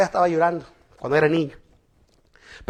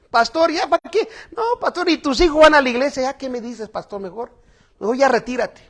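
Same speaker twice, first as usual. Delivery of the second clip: higher, whiny mock of a dismissive churchgoer; mocking complainer; 5 semitones higher, faster than usual. Churchgoers telling their pastor to retire, lightly whining mockery.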